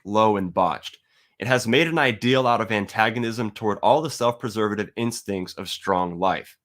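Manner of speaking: measured, deliberate reading of a text; a steady reading of a philosophy quote; reading Nietzsche aloud. Shown as a demonstration. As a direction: read the passage with weight and conviction. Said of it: "I'm gonna read a little bit".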